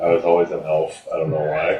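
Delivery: echoey, talking into a mug; into a cup. Real, not acted. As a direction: speak with the mug at your mouth. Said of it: "Quit talking into your mug".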